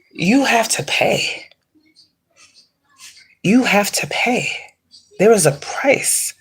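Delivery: whispered, breathy warning; ominous whisper. Real, not acted. Whispering a warning to people who steal grave dirt.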